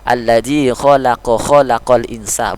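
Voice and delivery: slow linked reading of "alladzi khalaqa khalaqal insa"; continuous recitation without qalqalah. Shown as a demonstration. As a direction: run "khalaqa" straight into "khalaqal", no bounced q. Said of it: "jangan dibaca qalqalah".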